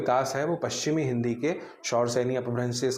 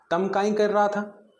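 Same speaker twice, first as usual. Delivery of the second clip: slow, higher Malwi dialect line; 7 semitones higher than usual. Shown as a demonstration. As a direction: say it the Malwi way, drawn out. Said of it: "इसको मालवी में कैसे बोलेंगे".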